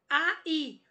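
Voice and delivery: "A, i" as two distinct vowels; pronounced separately. Shown as a demonstration. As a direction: keep "A" and "i" apart. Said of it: "pronunciadas separadamente".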